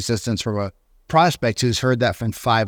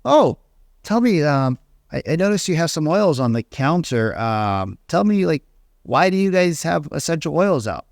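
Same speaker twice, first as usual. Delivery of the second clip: curious open question; 3 semitones higher than usual. Shown as a demonstration. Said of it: "If you really need to talk about the essential oils".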